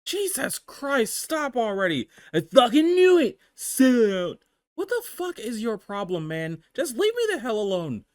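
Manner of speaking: shrill furious woman shouting; angry high yell. Acted. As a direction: scream at the pest. Amanda yells back at texts.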